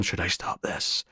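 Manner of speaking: slow, hushed mock whisper. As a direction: imitate a discreet whispered question to mum. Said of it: "like, whispering to her mum".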